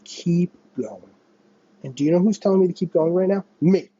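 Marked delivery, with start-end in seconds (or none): 0.0-1.1 gentle encouragement. Retold or imitated. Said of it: "and says".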